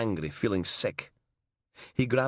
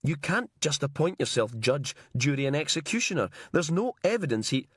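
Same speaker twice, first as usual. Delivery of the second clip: rising alarm; 4 semitones higher than usual. Acted. Logan refuses, pleading with Inch.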